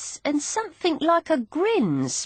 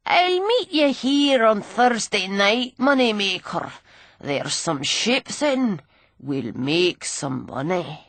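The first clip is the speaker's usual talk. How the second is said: put-on sneering old drunk. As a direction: taunt her like a grimy old rogue. Gully's voice.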